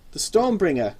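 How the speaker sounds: proudly announced name; confident. Acted. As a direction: declare it boldly. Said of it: "she said confidently".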